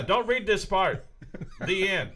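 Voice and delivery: slow, spelled-out reading of "Don't read this part"; deadpan slow caption reading; mock caption read.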